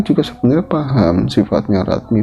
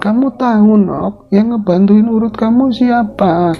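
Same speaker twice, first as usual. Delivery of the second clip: Nyi Suti reproaching; 9 semitones higher than usual. Acted. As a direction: remind her who helped her. Suti rebukes Ratmi.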